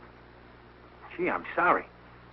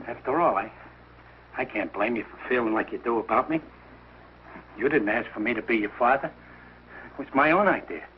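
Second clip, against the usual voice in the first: low, wounded resignation; hurt, self-pitying; 4 semitones lower than usual. Acted. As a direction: play the rejected father, voice dropped. Hurt father feels unwanted.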